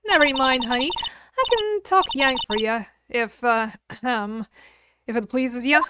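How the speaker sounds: a touch of Southern twang; Southern woman voice. Acted. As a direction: play a sassy country gal. Southern character introduces herself.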